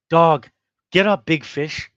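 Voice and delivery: slow, a hint of a ringside cheerleader; Ray Jackson impression. Host mocking Ray Jackson's fight tweet, lightly voiced. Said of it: "my Ray Jackson accent isn't that great".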